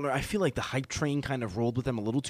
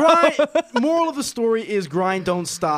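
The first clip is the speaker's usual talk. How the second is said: excited shout; 6 semitones higher, 8 dB louder, slower than usual. Real, not acted. Rallying exclamation.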